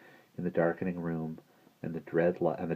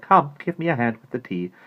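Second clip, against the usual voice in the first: raised, loud, bossy request; brisk lady; 7 semitones higher, 7 dB louder than usual. A narrator's reading. Miss Christabel wants help with tea, brisk lifted voice.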